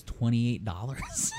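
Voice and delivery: slow, loud outraged price reading; mock shocked shout. Earn seeing the soup price, a slow mock outraged shout. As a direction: stretch the price out in disbelief.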